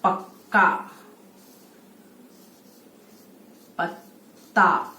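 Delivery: पक्का and पत्ता said slowly with the doubled consonant held; example words. Shown as a demonstration. Teacher reading examples to children, slowly. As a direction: draw out the double sound. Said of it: "जैसे इसका हो सकता है शब्द".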